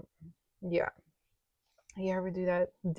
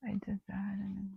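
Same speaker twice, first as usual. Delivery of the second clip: whisper; 4 dB quieter than usual. Real, not acted. Counting cash under breath.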